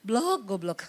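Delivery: smiling insult. Retold or imitated. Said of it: "Dia tersenyum, dia bilang".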